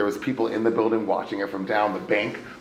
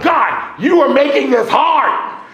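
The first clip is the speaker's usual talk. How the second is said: high, loud, laughing complaint to God; retold yell; 11 dB louder, slower than usual. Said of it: "I yell. I'm like".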